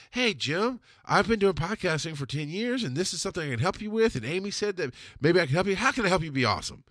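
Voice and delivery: mock nervous, eager-to-please pitch; fearful polite. Cold email to Jim Brewer, meek and overpolite. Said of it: "the fearful, polite, quote-unquote professional emails".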